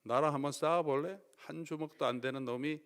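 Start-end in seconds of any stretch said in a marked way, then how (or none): 0.0-1.2 mock thug. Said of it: "깡패처럼 그렇게 나타나서".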